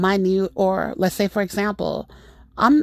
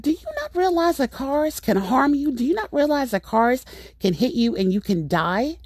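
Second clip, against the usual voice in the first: higher-pitched, exasperated questioning; incredulous scolding; 5 semitones higher than usual. Retold or imitated. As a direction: retell an incredulous telling-off. Scolding careless boyfriend, retold.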